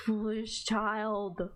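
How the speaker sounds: scornful priestess. Acted. Priestess scolds, slow.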